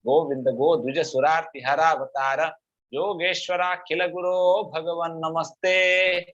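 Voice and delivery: full-voiced chant with long, drawn-out syllables; Sanskrit verse recitation. Teacher reciting Kunti's last verse of prayer, sustained chant. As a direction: chant it steadily, stretching the line endings slowly.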